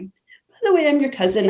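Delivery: high-pitched retold blurt; blurted confession. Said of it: "it just kinda came out of me".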